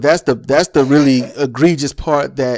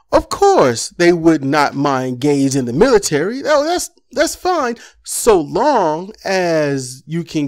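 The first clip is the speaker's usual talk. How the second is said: sarcastic mockery. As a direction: sneer it like you're parroting them. Sarcastic mock of politicians.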